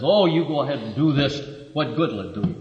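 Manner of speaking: mildly dismissive go-ahead; brisk, understated brush-off, dropping at the end; a touch of scornful permission. Acted. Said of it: "there is a tone that says".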